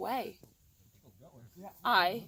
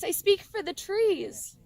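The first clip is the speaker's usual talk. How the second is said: slow loud declaration; 10 semitones higher, 6 dB louder, slower than usual. A narrator's reading. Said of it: "cried the Lorax".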